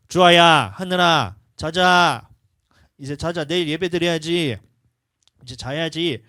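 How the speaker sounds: put-on loud call to the children, then settling; calling kids to bed. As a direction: parent calling the kids to sleep. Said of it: "주아랑 하늘이가 밤에 안 자요".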